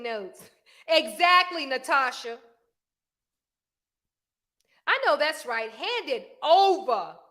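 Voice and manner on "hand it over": drawn-out demand. Shown as a demonstration. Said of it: "I ain't gonna even say hand it over".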